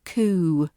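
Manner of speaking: Coup said koo, p dropped; just koo for Coup; silent p. Shown as a demonstration. Teacher repeating the correct form. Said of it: "We drop that p sound".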